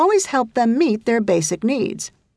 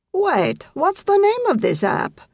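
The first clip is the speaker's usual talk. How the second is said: shivering voice; 9 semitones higher than usual. Acted. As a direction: voice shaking with cold, teeth chattering. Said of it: "his voice shaking with shivers".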